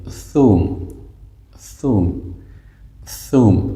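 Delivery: "ثوم" with the tongue-tip th sound; correct Arabic pronunciation. Shown as a demonstration. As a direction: say "ثوم" starting on a clear th. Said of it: "تلفظ درستش یاد بگیرید". (تلفظ درست «ثوم» با نوک زبان)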